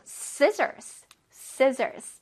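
"scissors" with a tense, stressed SCI; forceful scissors. Shown as a demonstration. Teacher drilling pupils, forceful pronunciation. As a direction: push hard on the start of "scissors". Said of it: "얼굴에 힘을 주고".

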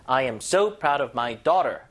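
long, emphatic "so"; stress on SO. Shown as a demonstration. Teacher models praising a daughter, stress on "so". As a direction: lean hard on "so" before "proud of my daughter". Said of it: "강세".

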